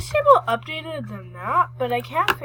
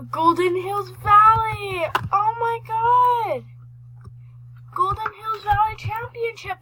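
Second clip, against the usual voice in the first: excited; 8 semitones higher, 5 dB louder than usual. Real, not acted. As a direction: draw it out in awe. Discovers new area.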